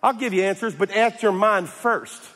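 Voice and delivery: lightly voiced indignant God calling someone out; God challenging Job. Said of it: "and God says".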